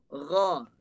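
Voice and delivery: "gha" as a separate syllable; first sound alone. Shown as a demonstration. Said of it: "Ada tiga bunyi".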